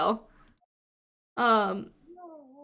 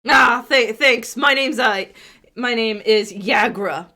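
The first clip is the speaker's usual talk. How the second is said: half-orc woman voice; 5 dB louder than usual. Acted. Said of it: "half-orc introduces herself".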